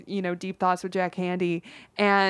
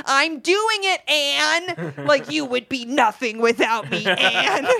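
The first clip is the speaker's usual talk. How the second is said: higher, louder, snotty mock voice; bratty Helen Keller; 7 semitones higher, 4 dB louder, slower than usual. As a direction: sneer it down at her teacher. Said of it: "played Helen like a fucking bitch".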